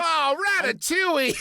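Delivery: high, hammy French cry; french chef. Pretend. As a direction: exclaim like a flustered French chef. Mock French exclamation.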